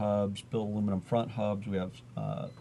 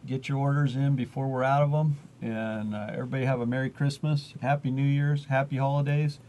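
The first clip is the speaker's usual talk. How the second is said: excited sign-off; 4 semitones higher, 5 dB louder than usual. Real, not acted. Upbeat sign-off to viewers.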